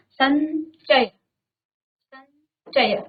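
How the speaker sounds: drawn out slowly; teacher's slow demo of संचय; slow model reading. Shown as a demonstration. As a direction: say it slowly so the nasal shows. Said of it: "उच्चारण किसका आ रहा है".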